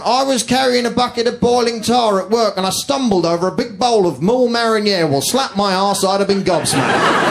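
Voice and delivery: lightly hammed-up TV ad voice; mock advert voice. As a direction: parody a cheesy advert testimonial. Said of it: "That advert had gone".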